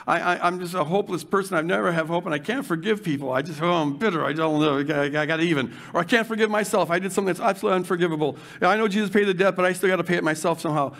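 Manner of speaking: mope it out low and defeated, a lightly voiced self-pitying addict; a hint of a beaten-down inner voice; whiny old narrative voice. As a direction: sigh out the hopeless excuses. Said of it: "where we say".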